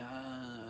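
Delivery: soft groggy "ah"; dazed moan. Retold or imitated. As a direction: let out a quiet, dazed sigh of a sound. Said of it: "I'm dazing".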